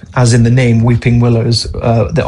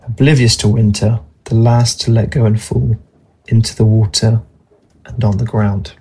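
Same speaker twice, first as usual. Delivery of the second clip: poem reading. Acted. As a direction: read it like an autumn poem. Reads a poem aloud.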